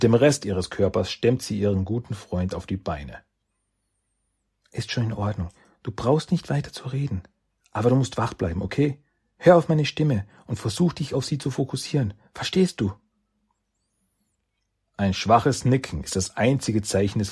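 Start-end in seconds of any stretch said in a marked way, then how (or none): 4.7-12.9 reassuring. Acted. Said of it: "Shens Stimme ... wohltuende Klang".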